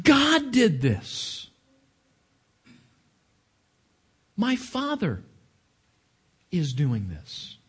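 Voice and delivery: very slow, deliberate declaration; emphatic pointing. Retold or imitated. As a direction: point and insist, word by word. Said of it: "He takes his finger and he points and says".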